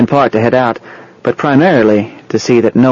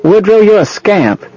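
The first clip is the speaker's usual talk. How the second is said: high, drawn-out happy call; high-pitched playful scolding for others to hear; loud and happy; 10 semitones higher, 3 dB louder than usual. A narrator's reading. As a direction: call out gladly, pitched well up, slowly. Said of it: "she said loudly and happily".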